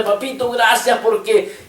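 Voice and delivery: high-pitched, mildly excited thanks to a father; celebrating thanks. Retold or imitated. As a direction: re-enact giving joyful thanks without raising the volume. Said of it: "yo ya estaba haciendo fiesta, diciéndole".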